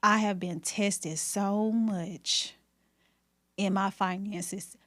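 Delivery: slow, halting, fighting not to cry; real tearful restraint; holding back tears. Real, not acted. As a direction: keep the tears in as you get it out slowly. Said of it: "trying to hold back tears".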